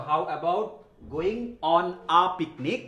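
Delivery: drawn out slowly for students; each word stretched out to copy; slow model phrase. Shown as a demonstration. Teacher modelling slowly for the class. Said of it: "how about going to picnic".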